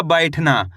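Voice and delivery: 'बैठना' को अक्षर जोड़कर एक शब्द में बोलें; 'बैठना' में खुला 'ऐ', अंत में सुर गिराएँ; मिलाकर पढ़ना. Shown as a demonstration. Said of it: "तो मिलके बन जाएगा". ('बैठना' साफ़, जुड़ा हुआ उच्चारण)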